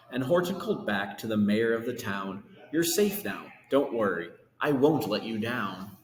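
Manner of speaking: lively rhyming read-aloud; storybook reading. A narrator's reading. Reading Horton to kids, lively rhyming storytelling. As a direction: read the verse to children with bounce. Reads picture book aloud.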